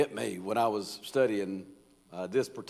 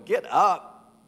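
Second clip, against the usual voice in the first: higher, louder dad's wake-up call; dad waking you; 7 semitones higher, 6 dB louder than usual. Retold or imitated. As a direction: bark it like a father at the bedroom door. Dad's coming in there going.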